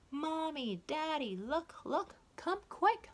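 high, loud excited shouting; children calling out. Acted. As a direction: call the parents in a rush of excitement.

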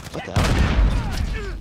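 high, slow disbelieving what the hell; drawn-out surprise. Real, not acted. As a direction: stretch it out in disbelief. Surprised by sudden enemy.

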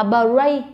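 "bray" split with an extra vowel, like "buh-ray"; wrong split cluster. Shown as a demonstration. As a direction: break the "br" of "bray" into two syllables. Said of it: "Mình không đọc là".

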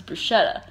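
bruschetta as "broo-SHET-ta"; everyday "bruschetta" with an sh sound; soft-SH bruschetta. Shown as a demonstration. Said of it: "I always thought it was bruschetta".

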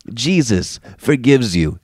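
ordinary delivery

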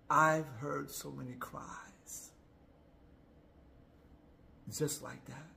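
hushed, slow whisper. Real, not acted. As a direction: breathe it out in a whisper. Emotional reflection, whispered.

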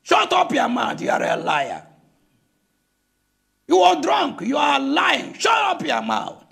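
hammed-up drunk heckler yelling; mock heckler shout. Drunk man across the fence heckling the evangelist, shouting. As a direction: bark it at the preacher like a rowdy drunk. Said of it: "he shouted at the evangelist".

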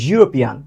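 ইউরোপিয়ান begun with a soft buzzed "zh"; soft z-like onset. Shown as a demonstration. Teacher demonstrates the rule, ইউরোপিয়ান with z-like onset. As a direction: put a z-glide before the u of ইউরোপিয়ান. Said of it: "আবার সেই জের মতো".

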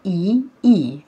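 "اي اي" spelled out letter by letter; name each letter of "اي اي" distinctly. Shown as a demonstration. Teacher spelling the two letters for pupils, letter by letter. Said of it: "two letters اللي هما".

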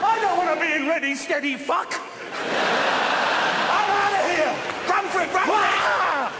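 flee in blind panic; panicked shout. Acted. Running from Ainsley Harriott, panicked shouts.

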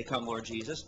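the Spirit's call, hushed and low; soft low plea. Acted. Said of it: "That's when the Spirit will say".

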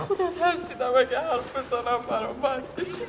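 teary confession. Acted. Cleaner confesses fear of dismissal.

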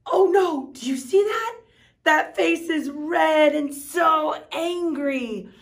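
gasp, then high and loud, slowing on the angry face; mock alarm. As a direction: play shocked for the kids. Shows angry face picture.

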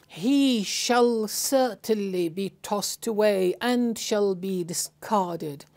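slow, weighty reading of the translation; emphatic translation reading. Shown as a demonstration. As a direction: draw out "He shall certainly be tossed away" deliberately, phrase by phrase. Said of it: "the emphasis, uh, the, the double emphasis".

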